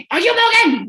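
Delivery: high, loud retold scream; loud mock interview scream; imitated screaming. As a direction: bellow it like the boss who screamed. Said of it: "Like, screaming at me".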